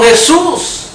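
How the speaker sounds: mock cry of the lepers; calling out loud. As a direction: call out to the Master from a distance. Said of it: "Alzaron la voz a gritos".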